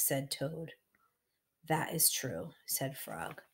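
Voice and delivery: measured, emphatic storybook narration; story reading for children. A narrator's reading. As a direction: read it aloud to little listeners.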